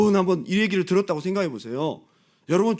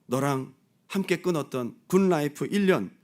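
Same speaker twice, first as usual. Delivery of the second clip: timid pleading. Retold or imitated. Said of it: "다시 어려워하면서".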